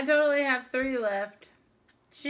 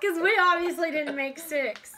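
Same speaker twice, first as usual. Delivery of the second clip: laughing; 4 semitones higher, 5 dB louder than usual. Real, not acted. Laughing at failed attempt.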